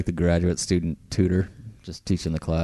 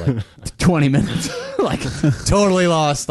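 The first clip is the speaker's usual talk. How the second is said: laughing; 9 semitones higher, 4 dB louder than usual. Real, not acted. Laughing at own daydreaming.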